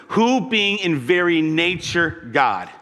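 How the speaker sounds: slow deliberate scripture emphasis; slow, weighty reading. Shown as a demonstration. Preacher rereading the verse to his church, slowly and deliberately. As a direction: read it slowly, leaning on each word. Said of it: "now listen".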